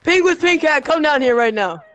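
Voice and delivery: high loud call out; yelling across the room. Real, not acted. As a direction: shout for him to come over. Calling a player in game.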